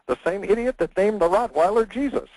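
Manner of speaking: a hint of a smug bird; parrot voice. Parrot answers the burglar's question, mild parrot voice.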